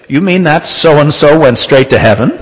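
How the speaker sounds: high, loud, scandalised protest; indignant disbelief. Retold or imitated. Nurse protesting that the man went straight to heaven, indignant. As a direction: throw the question out, outraged. Nurse outraged at the man's salvation.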